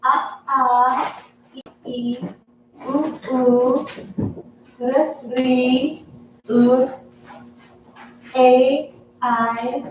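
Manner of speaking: talking through a mouthful of food; mouth full. Real, not acted. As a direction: recite the sounds while chewing. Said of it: "With your mouth full".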